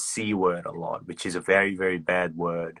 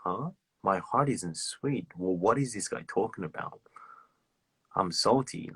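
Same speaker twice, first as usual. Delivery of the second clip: confused reply; 7 dB quieter than usual. Retold or imitated. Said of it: "they'll be like".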